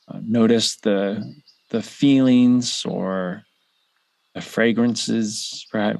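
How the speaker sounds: unhurried meditation guide with long pauses; measured guided-visualization delivery, spaced-out phrases. Real, not acted. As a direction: lead listeners gently through it, leaving room to breathe.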